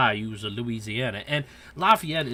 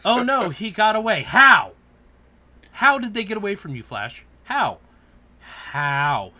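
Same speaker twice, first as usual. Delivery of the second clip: loud, high mock outrage; ranting at the Flash show; 6 semitones higher, 9 dB louder than usual. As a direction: yell at the TV in disbelief. Mocking Flash villain escapes.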